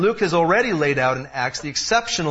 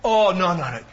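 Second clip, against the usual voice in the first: mock reassuring friends; 7 semitones higher than usual. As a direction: ham up the cheery advice. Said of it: "what everybody said".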